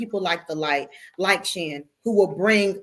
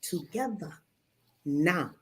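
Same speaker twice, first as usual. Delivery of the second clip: blunt scolding; 3 semitones lower, 3 dB quieter, slower than usual. Acted. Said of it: "No, it's actually".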